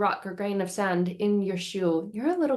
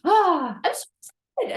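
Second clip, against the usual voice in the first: put-on much higher, fast, breathless kid chatter; overexcited child; 8 semitones higher, much faster than usual. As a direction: rattle off wishes like a giddy kid. Excited child listing wishes.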